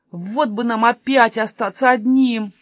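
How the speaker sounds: slow, drawn-out wistful wish; wistful sighing. Acted. Jonatan longing to be rid of Sofia, slow sighing. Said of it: "вздохнул Юнатан".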